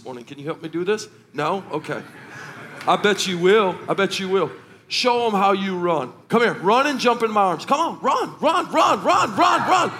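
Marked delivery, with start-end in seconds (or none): 6.3-9.9 high, sing-song cheering on; playful urging. Real, not acted. Urging child to run to him.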